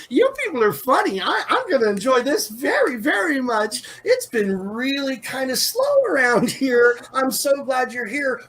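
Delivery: high, excited sing-song chatter; a bubbly hostess gushing over new guests; sing-song Edra. Acted. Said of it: "she has a very sing-songy kind of voice".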